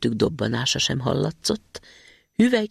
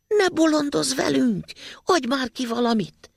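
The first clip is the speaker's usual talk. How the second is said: gruff robber plea; 11 semitones higher than usual. Acted. Robbers calling in window.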